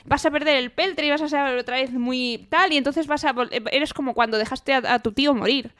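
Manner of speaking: a hint of a desperate yell; pleading shout. Kelsier cries out to stop Spook, pleading. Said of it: "empieza a gritar Kelsier".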